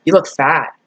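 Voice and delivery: low, bored, put-upon ghost voice; annoyed ghost. Retold or imitated. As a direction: sigh it out like a fed-up spirit. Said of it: "Maybe it's like".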